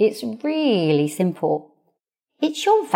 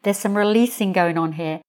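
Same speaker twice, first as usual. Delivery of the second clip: joyful hallelujah. Retold or imitated. Coach cheering as a client starts crying. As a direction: celebrate the tears like good news. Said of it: "I'm like".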